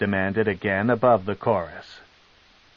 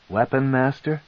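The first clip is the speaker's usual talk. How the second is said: higher, disbelieving repeat of Weapon Master; incredulous echo; 4 semitones higher than usual. Acted. Son echoing his mother's offer, higher and scornful. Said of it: "Drist echoed".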